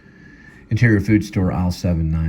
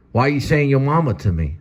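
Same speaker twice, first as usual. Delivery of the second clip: put-on higher, whiny kid voice; kid protesting; 9 semitones higher than usual. Boy whining at Guitar Man over the insult. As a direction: play a hurt little boy.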